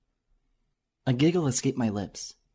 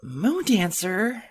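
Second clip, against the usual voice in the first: high, slow drawn-out whine; whining; 8 semitones higher, much slower than usual. Acted. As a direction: whine the name in protest. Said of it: "Twilight protests in a whining voice".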